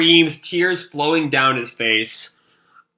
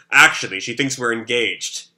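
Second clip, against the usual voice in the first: voiced as Shiro; 3 semitones lower than usual. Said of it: "that's, uh, Shiro talking".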